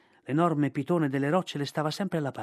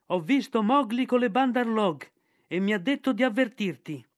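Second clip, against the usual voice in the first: high, loud bird messenger; kite Ran reporting; 6 semitones higher, 4 dB louder than usual. Acted. The kite Ran tells Balù where Mowgli was taken, high and urgent. Ran delivers his message.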